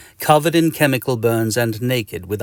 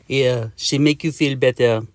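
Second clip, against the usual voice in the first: put-on French accent; 2 semitones higher than usual. Mosquito offers soup.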